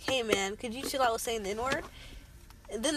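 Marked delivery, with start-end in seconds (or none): 0.0-1.8 softer, lower gentle request; mild friendly request; polite ask. Retold or imitated. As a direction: ask nicely. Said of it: "If you say something like".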